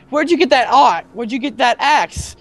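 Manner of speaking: high-pitched imitation of a Scottish accent. Player quoting a missed game line to friends, mock Scottish accent. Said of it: "In, like, a Scottish accent".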